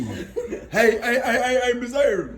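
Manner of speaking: loud, high call for the teacher's attention. Acted. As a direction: pupil hollering across a classroom. Pupil calls out to the teacher.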